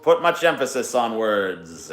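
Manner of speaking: drawn-out words with odd stresses; Norm Macdonald. Acted. Terrible impression on request, a hint of Norm Macdonald's delivery. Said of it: "Norm Macdonald".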